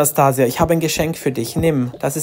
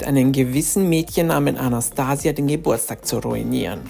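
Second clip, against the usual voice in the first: scheming villain; 5 semitones lower, 3 dB quieter than usual. Acted. Mother plots to ruin party.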